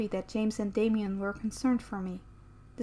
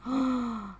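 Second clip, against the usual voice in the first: gasp. Acted. Startled by Sam's touch.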